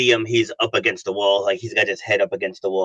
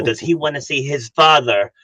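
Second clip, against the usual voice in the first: rousing coach call, slowing down; rallying push; 3 semitones higher than usual. Retold or imitated. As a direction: fire him up to get back in the gym. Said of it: "I go".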